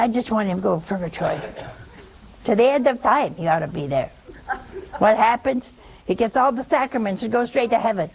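quick, indignant retelling of her complaint; retold anger. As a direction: rattle off the widow's grievance, mildly heated. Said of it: "And she was angry".

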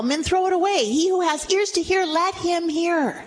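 high, ringing scripture proclamation; preaching scripture. Acted. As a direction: preach the verse out. Preaching scripture at full force.

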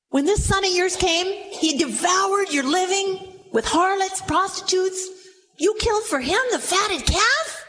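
high, outraged accusation; rising disbelief at the fatted calf; elder son scorning his brother to his father; indignant son. Acted.

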